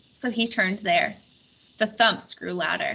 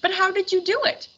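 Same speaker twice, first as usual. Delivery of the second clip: high booming king voice; a big-voiced king calling out; jolly king; 11 semitones higher than usual. A narrator's reading. King's voice.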